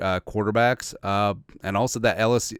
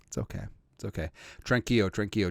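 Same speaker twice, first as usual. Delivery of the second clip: mock soothing; 6 dB quieter, faster than usual. Soothing himself about critics.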